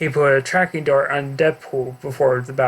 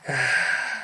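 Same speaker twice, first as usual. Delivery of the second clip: a soft weary sigh; frustrated sigh; 3 semitones lower, 6 dB quieter than usual. Acted. Mark sighs over his equation. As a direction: let the air out, stuck on the problem. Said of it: "while sighing".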